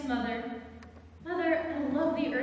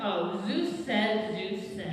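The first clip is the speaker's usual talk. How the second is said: mocking; 4 semitones lower, slower than usual. Mocking her warning.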